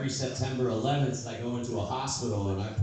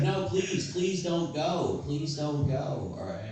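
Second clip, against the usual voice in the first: higher, slow, drawn-out pleading; grandma begging; 4 semitones higher, slower than usual. Retold or imitated. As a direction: beg him to stay, stretching each please.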